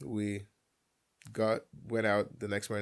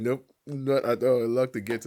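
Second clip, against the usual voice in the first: stern dad; 2 semitones higher, 7 dB louder than usual. Retold or imitated. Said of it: "He was like".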